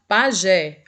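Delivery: "Pajé" with a firm stress on JÉ; final-syllable stress. Shown as a demonstration. Teacher repeating an oxytone example, "Pajé" stressed on JÉ. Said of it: "a última sílaba é a mais forte".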